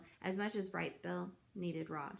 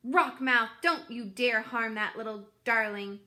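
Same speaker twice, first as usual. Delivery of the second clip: put-on louder, fierce old goose warning; fierce scolding; 6 dB louder than usual. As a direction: scold the fish, protective and loud.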